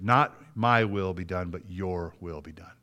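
low, hushed, slow surrender; quiet prayer of submission; yielding. Acted. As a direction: give in softly, fading away. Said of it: "he yields himself and says".

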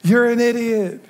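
slow, high blunt rebuke. Retold or imitated. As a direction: call him an idiot, slowly. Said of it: "Can I translate?".

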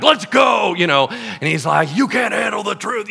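loud, high shouted challenge; brawler challenge. Acted. Paul squaring up to his critics, shouting. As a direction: shout like a scrappy fighter.

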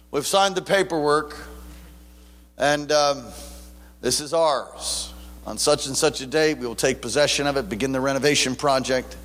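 sober, businesslike announcement; imitating a serious pastor. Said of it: "he was so serious".

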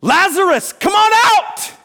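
commanding call, loud and high; Jesus. Acted. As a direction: summon someone out from afar. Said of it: "what does Jesus say?".

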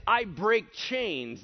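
slow, deliberate i break chains; slow menacing boast. Retold or imitated. Preacher voicing the demoniac's boast, slow and menacing. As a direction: drag each word like a threat. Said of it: "This is".

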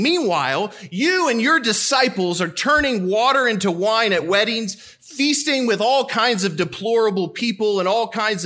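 lightly voiced indignant critic of Jesus; a hint of a self-righteous scold; scoffing objector. Voicing a scoffing objector again.

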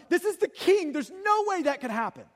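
incredulous protest. Retold or imitated. Preacher voicing disciples who can't comprehend, incredulous. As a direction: insist it is simply impossible.

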